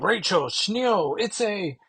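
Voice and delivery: put-on high, slow frantic German-accented call; Kurt's German urgency. Kurt warns Rachel of the bomb, German accent. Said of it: "is quick to be like".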